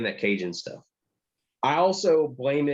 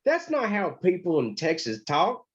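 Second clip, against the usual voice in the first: imitating the wife; 6 semitones higher than usual. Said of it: "She's like".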